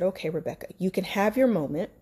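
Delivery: talking herself through the fear; gentle self-talk. Retold or imitated. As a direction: comfort yourself kindly. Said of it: "This is how I talk to myself".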